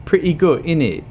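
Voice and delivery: high mock British accent; chirped stereotype British accent.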